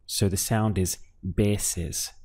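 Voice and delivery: "veces" said with a firm B sound, "beses"; strong B for V. Shown as a demonstration. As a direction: start "veces" with a clear B, not a V. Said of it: "a strong B sound over the V".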